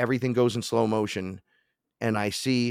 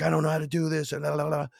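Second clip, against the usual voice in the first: much higher, frustrated whine; 8 semitones higher, faster than usual. Retold or imitated. Frustrated in the backyard, high whine. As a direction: whine like you've given up. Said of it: "I'm like".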